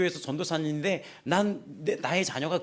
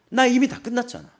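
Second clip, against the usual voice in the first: louder, higher, sure of yourself; bold declaration; 7 semitones higher, 4 dB louder than usual. Shown as a demonstration. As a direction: declare it boldly to the congregation. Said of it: "이렇게 얘기를 할 수 있어야 돼요". (당당하게 크게 선언)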